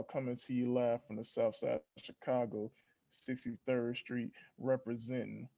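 hyped wrestler promo, trash talk; wrestling promo. Pretend. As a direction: cut a cocky wrestling promo. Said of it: "give 'em a little taste of a promo real quick".

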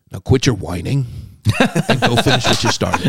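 a mock cowboy-hero order to stop complaining; John Wayne. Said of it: "he channeled John Wayne right there".

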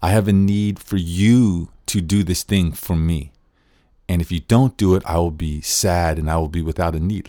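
pushy, insistent request, leaning on you; demanding tone. Shown as a demonstration. Teacher voicing a demand dressed up as NVC, insistent and pushy. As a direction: press the need onto the listener like a demand. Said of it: "that's like a demand".

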